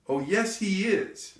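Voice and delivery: high, loud contradiction; piping up. Retold or imitated. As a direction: burst out with it from hiding. Hidden boy pipes up, startling mother.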